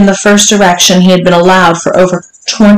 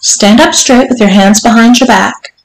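higher, brisk-toned instruction; ordering; 4 semitones higher than usual. Acted. Mistress ordering her servant, firm but unraised. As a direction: give a controlled command. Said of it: "Missus Johnson ordered".

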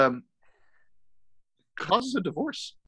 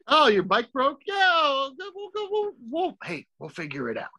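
a gentle dad reassuring kindly; nice dad voice; 13 semitones higher than usual. Retold or imitated. Voicing Max's dad.

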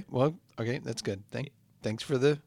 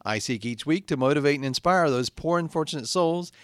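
slow, earnest host monologue; podcast host intro; slower than usual. Acted. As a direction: inspire the damned listeners, slowly.

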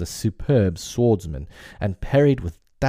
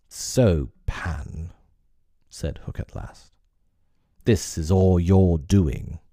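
Hook's menace; slower than usual. Acted. Hook confronts Peter at last.

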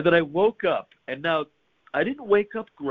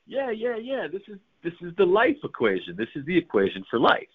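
excited discovery; 6 semitones higher than usual. Retold or imitated. Excited realization in dream.

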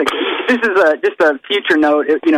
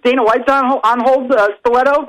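fake live cue; 4 semitones higher than usual. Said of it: "you hear me in a completely different tone".

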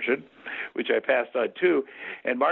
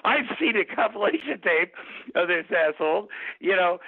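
higher, eager recollection; a retold flash of memory, pitched up; excited realization; 6 semitones higher than usual. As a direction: relive the moment it clicked. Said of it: "Then I remembered".

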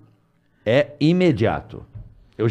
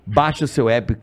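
podcast sponsor pitch with stretched phrases; ad read. Acted. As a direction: lay out the app offer like a host's live ad. Reads the sponsor spot.

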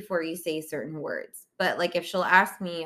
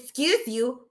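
mild mock sass, a little higher; with attitude; 5 semitones higher, slower than usual. Daughter correcting mom after a burp, with attitude. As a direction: imitate a kid's pointed comeback. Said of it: "she said it with attitude".

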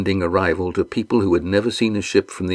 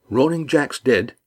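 incredulous; 5 semitones higher than usual. Acted. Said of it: "Estrella asked incredulously".

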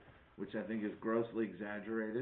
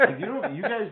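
laughing through words; 9 semitones higher, 10 dB louder than usual. Real, not acted. Laughing while talking.

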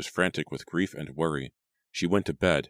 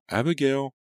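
calling out; 10 semitones higher than usual. A narrator's reading. Mother calling for her dead daughter, high and yearning. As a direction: call a lost child into the night. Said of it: "Again she called".

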